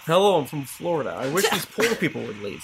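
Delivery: quick attempt at a Florida accent; mock Floridian accent. Shown as a demonstration. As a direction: put on a Florida accent, briskly. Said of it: "can you do a Florida accent".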